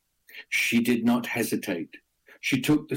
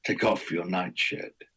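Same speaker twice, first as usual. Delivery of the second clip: serpent's growl; 4 semitones lower than usual. Acted. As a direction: growl it low like a serpent in his den. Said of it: "the serpent growled".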